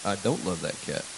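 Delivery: low, soft retold denial; retold quiet denial. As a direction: quote your denial under your voice. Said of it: "I was like".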